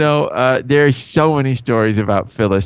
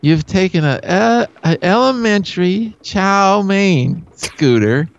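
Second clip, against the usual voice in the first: shouting at schoolkids; 5 semitones higher than usual. Pretend. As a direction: yell at a class of kids. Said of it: "you talk like you're screaming at a school".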